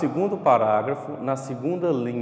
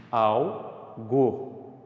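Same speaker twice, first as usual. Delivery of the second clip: "Algo" slowly parted into al, go; sílaba por sílaba; 3 semitones lower than usual. Shown as a demonstration. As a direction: pause between the syllables of "Algo". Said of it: "Você fala ela devagar, sílaba por sílaba". ("Algo" devagar, em duas sílabas)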